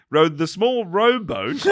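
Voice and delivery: slow, careful correction through laughter; laughing correction. Real, not acted. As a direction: fix the word while laughing.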